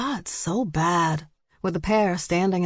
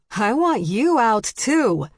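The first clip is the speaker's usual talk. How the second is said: stern order; 5 semitones higher, 4 dB louder, slower than usual. A narrator's reading. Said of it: "Charlie told Stevie".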